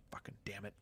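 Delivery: very soft, low disappointed curse; muttered letdown. Retold or imitated. Told it was only work gossip, muttered letdown. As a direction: swear under your breath in mock disappointment.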